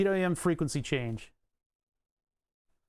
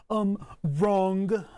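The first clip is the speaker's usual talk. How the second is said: mock retort; 3 semitones higher, 4 dB louder than usual. Mock reply to forum poster.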